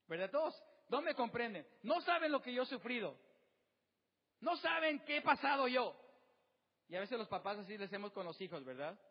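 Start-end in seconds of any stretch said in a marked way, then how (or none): 0.3-6.0 louder, higher, whiny protest that nobody gets it; mock self-pitying complaint. Preacher mimics a listener who feels misunderstood, loud and self-pitying. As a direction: pout it out like a wounded teenager. Congregant whining nobody understands them.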